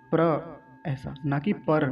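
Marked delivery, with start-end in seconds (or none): 0.1-0.2 प्र as one "pra" syllable; fuse p and r in प्र with no vowel between; joined PRA. Shown as a demonstration. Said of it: "इन दोनों को मिलकर बनता है". (प्र का संयुक्त उच्चारण)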